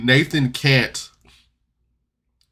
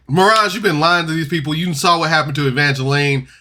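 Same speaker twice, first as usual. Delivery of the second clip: louder, raised accusing outburst; retold angry confrontation, loud and high; angry snap; 4 semitones higher, 4 dB louder than usual. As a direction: call him out hard, voice up. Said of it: "Ambrose immediately snaps".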